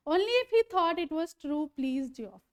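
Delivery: slow, deliberate reading of the English text, word by word; slow story reading. A narrator's reading. Teacher reading the novel aloud to students, slow and careful. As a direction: read each line out slowly for the class.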